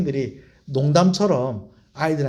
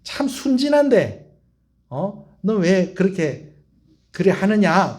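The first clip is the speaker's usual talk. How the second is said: affectionate scolding; 4 semitones higher, slower than usual. Retold or imitated. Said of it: "욕을 한다는 의미보다는".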